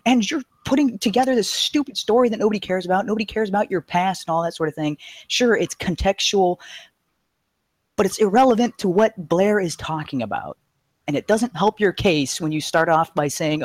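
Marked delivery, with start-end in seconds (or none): 0.0-10.6 raised, exasperated mock yell at a debater; yelling at the screen. Viewer yelling at Candace on screen, exasperated raised voice. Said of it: "I'm screaming at my screen".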